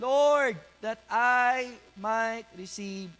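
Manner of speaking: loud, high cry with drawn-out words; impassioned plea. Acted. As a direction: implore the Lord as the blind man. Voicing blind man's plea to Jesus.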